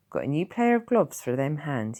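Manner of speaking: lightly voiced gruff Tom; a hint of a rough old villager; gruff old countryman. Tom's voice.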